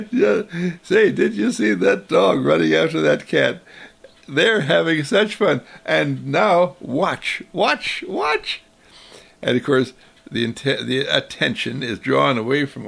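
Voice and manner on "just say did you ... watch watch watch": rising eager voice, final watch soaring; playful distraction. Acted. Mother pointing out the dog to distract her child, rising eagerly. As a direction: build excitement with each watch.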